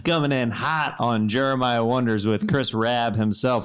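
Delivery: a hint of a soul crooner; sultry radio voice. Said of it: "Barry White's on the show today".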